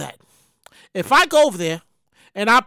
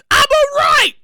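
loud reply; 10 semitones higher, 5 dB louder, slower than usual. Retold or imitated. His loud reply to authorities.

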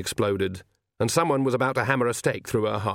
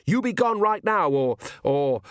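frantic shout; 8 semitones higher than usual. A narrator's reading. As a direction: yell it desperately. Oates screams at Death.

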